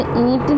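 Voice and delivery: "ईंट" with a nasalised ई; nasal vowel. Shown as a demonstration. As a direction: push "ईंट" through the nose. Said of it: "ईंट में क्या है, नाक से उच्चारण हो रहा है". ("ईंट" अनुनासिक उच्चारण)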